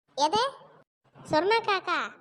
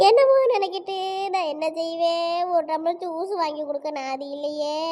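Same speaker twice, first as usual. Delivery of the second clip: hammed-up lament, sinking lower; tearful wailing; 3 semitones lower than usual. Woman lamenting in the road, theatrical tearful wailing. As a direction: wail in self-pity for onlookers. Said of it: "நடு ரோட்ல கிடந்து எதுக்கு அழுறிய?".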